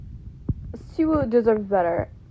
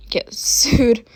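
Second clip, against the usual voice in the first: laughing whisper. Real, not acted.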